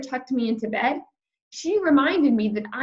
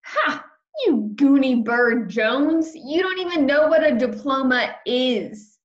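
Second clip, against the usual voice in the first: a lightly voiced bratty boy, loud and taunting; mild mocking laugh then a loud taunt; mocking meanie boy; 3 semitones higher than usual. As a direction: jeer at her like a schoolyard bully. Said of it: "laughed real loud at me".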